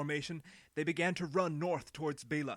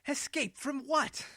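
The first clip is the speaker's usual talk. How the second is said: much higher, slow, mocking disbelief; scornful question; 13 semitones higher, 7 dB louder, slower than usual. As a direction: sneer at the very idea. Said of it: "Ado asked".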